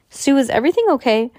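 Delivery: high, loud hurried question; worried call. A narrator's reading. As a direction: rush in anxious. Mom rushing over worried.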